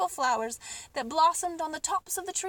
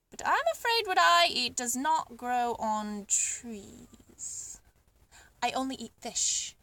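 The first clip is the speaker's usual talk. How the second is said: nervously; 3 semitones lower, slower than usual. Acted. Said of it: "said the pelican nervously".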